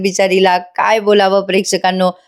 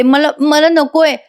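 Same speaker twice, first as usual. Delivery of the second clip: mildly scared, higher and slow; hesitant mock-fearful refusal; frightened retelling; 5 semitones higher, slower than usual. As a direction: act a touch afraid, drawing it out. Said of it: "घाबरून म्हणते".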